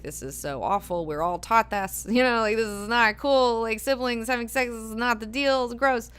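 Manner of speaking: a light mock of horrified disgust; retelling a character's disgust, lightly played. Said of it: "disgusted and horrified by this idea".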